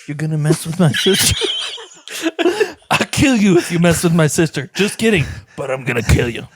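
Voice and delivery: lightly done New Yorker tough guy; a hint of a New York thug threatening; New Yorker accent. Failed pirate accent turning into a mild New Yorker. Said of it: "mine went New Yorker".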